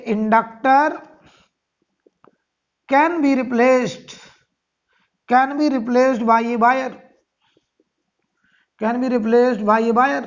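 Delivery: drawn-out words for note-taking; slow dictation. Real, not acted. Teacher dictating a rule to students, slow dictation. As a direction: dictate it slowly, phrase by phrase.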